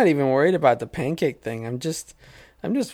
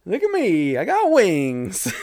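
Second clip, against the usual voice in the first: put-on strutting bird boy; slower than usual. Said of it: "I'm a bird boy".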